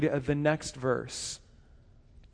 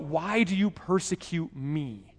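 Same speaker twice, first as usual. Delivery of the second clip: a slightly softer quote of the divine question; preacher retelling the heavenly voice's question; voice of God; 4 dB quieter than usual. Acted. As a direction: ask it once, lightly acted. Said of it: "the voice calls out".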